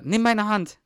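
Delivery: shouted film scene. Retold or imitated. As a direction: yell it like a hero in a disaster film. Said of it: "Und dann später". (hoch und laut, heldenhaft gerufen)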